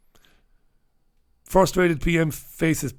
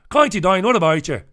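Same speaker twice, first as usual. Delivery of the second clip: raised, punchy County Down greeting; County Down accent; 4 semitones higher, 4 dB louder than usual. Acted. Host teasing a listener from there, mock County Down accent. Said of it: "All my accents sound the same".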